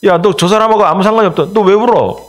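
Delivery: a suspicious crowd cornering Peter; needling challenge to a weeping man; accusing bystander. Retold or imitated. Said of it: "그럴 거 아니에요".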